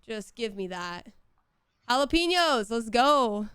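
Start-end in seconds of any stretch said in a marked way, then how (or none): 1.9-3.5 hyped up. Real, not acted. Hyping her favorite pizza topping.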